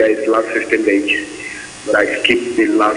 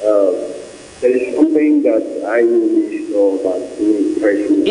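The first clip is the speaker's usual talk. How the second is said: muffled voice over the phone. Real, not acted. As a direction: talk through a muffled phone line. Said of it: "You are sounding muffled".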